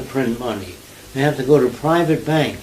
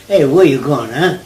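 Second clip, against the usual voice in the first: put-on Italian New York accent; 6 dB louder than usual. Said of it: "Italian kids say".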